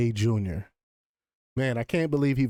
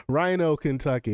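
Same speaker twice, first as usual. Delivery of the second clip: laughing. Real, not acted. Amused by the article's wording.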